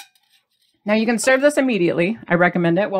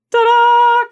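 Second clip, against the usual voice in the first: ta-da reveal; 8 dB louder than usual. Real, not acted. Proud reveal of the toast.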